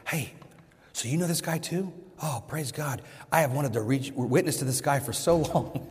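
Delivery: mock a friend's eager discovery; imitating excited friend. Friend tells the other guys about meeting this guy, imitated excitement. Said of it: "came to the other guys excited".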